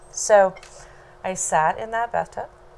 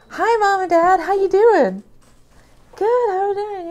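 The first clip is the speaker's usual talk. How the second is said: high and loud nervous brightness; forced cheerful greeting; 9 dB louder than usual. Retold or imitated. Greeting mom and dad on the phone, high and loud. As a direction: sing out a nervous hello.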